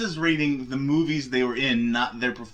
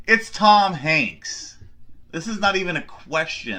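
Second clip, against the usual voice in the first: loud, high, drawn-out insistence; emphatic disbelief; 4 semitones higher, 6 dB louder, slower than usual. Real, not acted. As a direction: insist as if it's utterly obvious. Outraged that the choice is debated.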